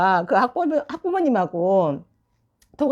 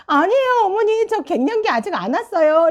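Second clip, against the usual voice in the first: high, protesting denial to a parent; flustered denial; 10 semitones higher than usual. Retold or imitated. Teacher protesting to a student's mother, high and flustered. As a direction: squeal it out, a bit embarrassed.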